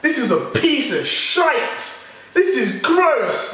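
mock disgusted viewer. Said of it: "you may think".

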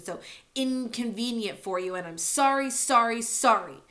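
loud, hurt shout at his father; bitter outburst. Acted. Boy yelling at his father, bitter outburst. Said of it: "Ender wanted to scream at him".

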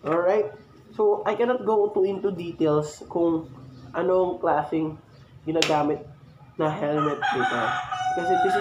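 talking through a face mask; muffled behind helmet mask; wearing a helmet. Real, not acted. Seen 2: Open-face helmet worn throughout, black cloth mask covers mouth.

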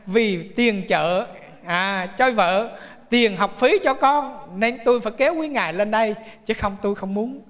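slow mock apology. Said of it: "mình kêu".

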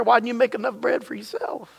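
dry sarcastic jab at the asker; sarcastic sneer at the late-night visitor. Acted. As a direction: needle him with sarcasm. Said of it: "add a little sarcasm in there".

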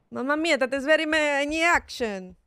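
mock Italian accent. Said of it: "I can do the accent".

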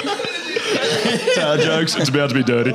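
high, laughing defence; laughing protest. Real, not acted. Comic defending his dirty joke to friends, laughing protest. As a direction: argue back through the giggles.

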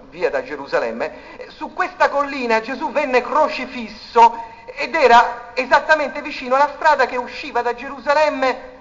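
ordinary talk

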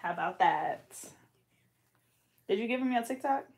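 whispered taunt, unvoiced; teasing whisper repeat. Real, not acted. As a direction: breathe it as a sly aside.

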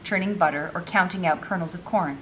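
measured read-aloud storytelling; story narration. A narrator's reading. Enslaved girl recounting her troubles, story narration. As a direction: read it out as a first-person tale.

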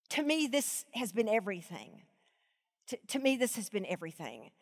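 deeply moved, near tears; holding back tears. Real, not acted. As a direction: emotion catching in the throat. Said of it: "swallow this lump in my throat".

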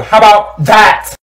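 loud, high comeback; drawn-out defiant yell; defiant shout. Acted. Defiant retort shouted in skit.

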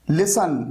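लिसन with only an s sound mid-word; silent T. Shown as a demonstration. Teacher showing silent letters, लिसन with the T dropped. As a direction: leave the t out of लिसन. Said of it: "यहां पर टी silent है".

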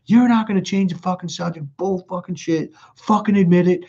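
high, insistent demand, not truly shouted; mock yell, punching out each accusation; retold yelling. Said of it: "I'm, like, yelling at him".

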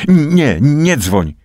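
sudden high, loud cry; frightened shout to stop him. A narrator's reading. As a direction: stop him from calling, alarmed. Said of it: "krzyknęła".

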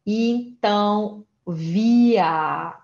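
via, the German wir with final r as a, slow. Shown as a demonstration. Teacher modelling wir for learners, slowly. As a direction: draw out via with an ah ending. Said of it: "tá vendo que o R aqui tá no final também".

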